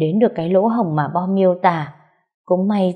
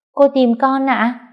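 put-on child voice; 7 semitones higher, slower than usual. Child Bom asks teacher.

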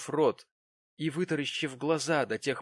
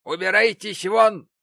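loud order out; 9 semitones higher, 11 dB louder than usual. Acted. Gamp orders Prig out again.

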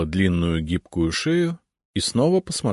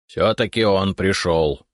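a bright, glad little announcement, slowly; cheerful; slower than usual. Acted. Left dragon head greeting the expected guest, cheerful. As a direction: cheerfully claim you were right. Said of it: "весело заявила левая голова".

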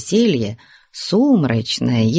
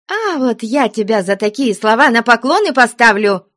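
put-on nun crying out at the girl; angry cry; 9 semitones higher than usual. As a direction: threaten her with punishment. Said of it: "вскричала мать Веринея".

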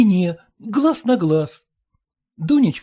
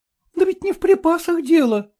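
with a sigh; 8 semitones higher than usual. Acted. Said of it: "со вздохом отвечала Дунька".

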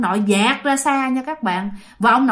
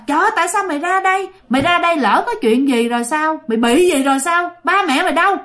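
higher, fast rebuke; scolding; 4 semitones higher than usual. Retold or imitated. Young man scolds the runaway boy, higher and fast. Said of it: "cái người này chửi ông nội".

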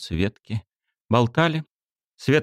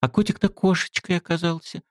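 blurted; 10 semitones higher than usual. A narrator's reading. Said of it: "вдруг брякнула".

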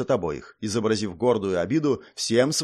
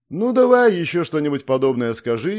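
sarcastic rebuke; 4 semitones higher, 6 dB louder than usual. Acted. Prince rebukes the princess.

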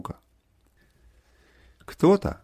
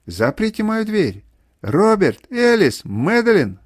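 high, loud, urgent cries; mother shouting; 6 semitones higher, 5 dB louder, slower than usual. A narrator's reading. Mother begging the children to lock her door, shouting. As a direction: cry out for help, name after name. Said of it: "Это мать кричит".

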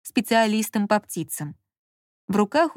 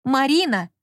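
shrill irritated cry; 4 semitones higher, 3 dB louder than usual. A narrator's reading. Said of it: "воскликнул он визгливым, раздражённым голосом".

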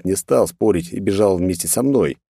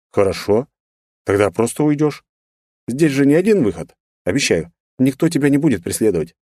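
soothing voice; 5 semitones higher than usual. A narrator's reading. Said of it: "спокойно произнёс я успокаивающим голосом".

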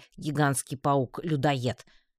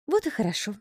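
с усмешкой; 8 semitones higher, faster than usual. A narrator's reading. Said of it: "усмехнулась амазонка".

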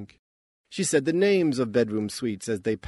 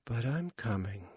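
sighed; 7 dB quieter than usual. A narrator's reading. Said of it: "the door sighed".

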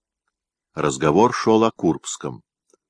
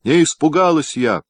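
much higher, loud defiant cry; 10 semitones higher, 4 dB louder than usual. A narrator's reading. Wife shouting her defiance at her husband, loud. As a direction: shout it back at him boldly. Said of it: "крикнула она громко и дерзко".

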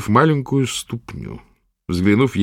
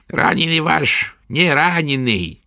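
high, slow crone's sneer; sneering old witch; 7 semitones higher, slower than usual. A narrator's reading. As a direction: twist the mouth and scoff. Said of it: "скривив рот".

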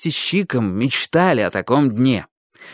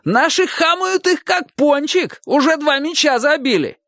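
excited shouting. A narrator's reading. Roof man reports the match, delighted yell. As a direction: crow over the score. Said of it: "восторженно закричал".

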